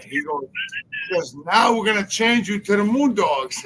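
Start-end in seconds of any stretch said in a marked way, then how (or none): 1.1-3.6 loud retold announcement; mock shout. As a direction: bark it out like the boss breaking news. Tony announcing the gimmick change.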